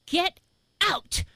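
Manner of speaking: high, drawn-out cry of amazement; two punched words with a gap between, incredulous; floored, high-pitched exclamation; stunned disbelief. Retold or imitated. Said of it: "and I went".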